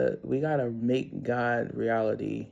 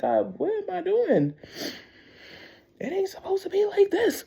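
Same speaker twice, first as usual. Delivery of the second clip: exasperated plea. Retold or imitated. Pleading with God, retold.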